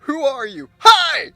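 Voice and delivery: shouted greeting, high and loud; calling down the stairs. Real, not acted. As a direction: call out down into the basement. Calling down to the princess.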